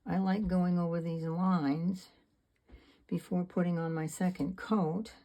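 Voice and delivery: talking around a brush in the teeth; paintbrush in mouth. Real, not acted. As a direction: mouth busy holding a paintbrush. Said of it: "I'm talking with a paintbrush in my mouth".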